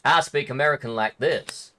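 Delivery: lightly caricatured American regional voice; American accent put on for comparison; mock American accent. Shown as a demonstration. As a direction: parody another American accent. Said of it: "most of it's gonna be like".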